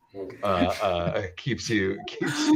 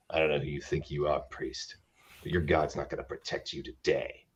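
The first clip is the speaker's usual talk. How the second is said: mock English accent; 9 semitones lower, 8 dB quieter than usual. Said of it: "like, high English accent".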